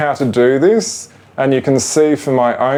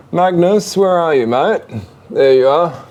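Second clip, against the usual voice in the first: high, searching call, rising at the end; 4 semitones higher than usual. Real, not acted. Owner looking for a hiding ferret, high coaxing call. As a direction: coax him out with a lilting call.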